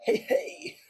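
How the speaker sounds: high squeaky goofy greeting voice with a laugh; weird voice. Acted. Greeting the chat in a weird high voice. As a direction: pop in with a silly high voice. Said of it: "I had to do that voice".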